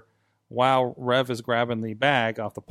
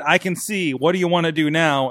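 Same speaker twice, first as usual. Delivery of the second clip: put-on light Italian accent, quoting a wrestler; a touch of Italian wrestler voice; 4 semitones higher, 4 dB louder than usual. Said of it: "in Italian accent".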